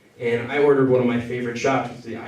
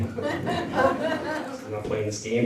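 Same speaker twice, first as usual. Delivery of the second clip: slow, high, drawn-out refusal; mock huffy friend; 13 semitones higher, 7 dB quieter, much slower than usual. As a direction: play the offended friend, stretched out. Friend refuses, voiced by comic.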